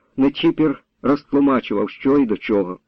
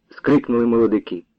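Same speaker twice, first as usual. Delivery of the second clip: ordinary delivery, nothing marked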